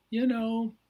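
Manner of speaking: put-on high, loud burst as the boy; a boy suddenly bursting out with his thought; excited little boy Yip. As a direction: jump up into an eager child's voice.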